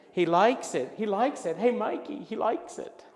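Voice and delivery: high, loud, amazed cry; excited commercial catchphrase. Retold or imitated. Quoting the Mikey commercial to the audience, excited. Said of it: "Do you remember this commercial?".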